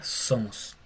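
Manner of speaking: somos with the s held long and buzzing. Shown as a demonstration. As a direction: stretch the s in somos into a z. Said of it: "como una S un poco más larga".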